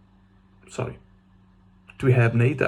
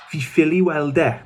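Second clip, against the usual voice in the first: Southern Welsh accent; 3 semitones higher than usual. Shown as a demonstration. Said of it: "I'm not gonna apologise for that accent".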